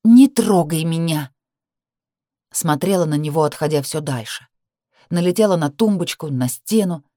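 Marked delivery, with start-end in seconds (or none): 0.0-1.3 recoiling in disgust. Acted. Girl recoils from Danil.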